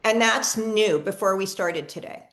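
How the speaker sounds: TODAY let down like a statement, no questioning rise; question without question tone. Real, not acted. Practitioner checking a client's new symptom, question said like a statement. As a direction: ask "And that's new before we started today" with no lift on TODAY. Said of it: "I didn't say it like a question mark".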